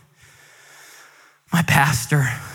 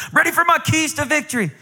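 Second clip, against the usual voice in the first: higher, eager pleading son; eager plea; 10 semitones higher than usual. Retold or imitated. Son asking his dad for the church keys, high and eager. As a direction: beg like a kid for the keys.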